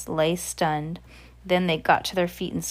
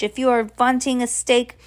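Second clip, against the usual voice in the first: put-on higher, accented witch voice; scolding witch; 5 semitones higher, 4 dB louder than usual. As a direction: scold the coven as an exasperated witch. Voices the Grand High Witch.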